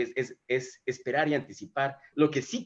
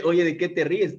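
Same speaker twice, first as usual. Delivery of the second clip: retold challenge, higher and louder; lightly acted pointed question, pitched up; God questioning Sara; 5 semitones higher, 6 dB louder than usual. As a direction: call someone out, loud and raised. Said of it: "y Dios le dice".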